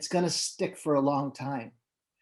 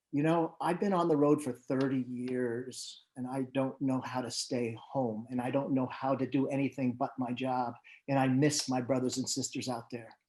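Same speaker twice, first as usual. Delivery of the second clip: subdued, quieter retelling of a tearful man; retold tearing up; 3 semitones lower, 4 dB quieter than usual. Road manager confiding how he misses his crew, retold subdued and mildly tearful. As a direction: let it sink low and soft, mildly choked-up in imitation. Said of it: "he was tearing up and he says".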